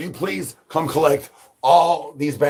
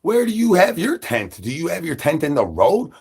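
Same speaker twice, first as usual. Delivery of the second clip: quoting a viewer; 6 semitones higher than usual. Retold or imitated. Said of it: "As that was asked".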